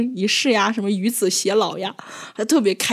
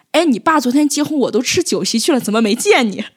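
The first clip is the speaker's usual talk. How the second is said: a hint of a nosy kid, higher and louder; teasing classmate; 3 semitones higher, 4 dB louder than usual. Teacher imitating a classmate prying about a wedding, lightly voiced.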